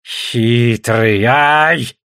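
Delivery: drawn-out reproachful exclamation; suitor's indignant exclamation; exclaiming. A narrator's reading. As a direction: cry out at someone's trickery. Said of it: "восклицает Дигар".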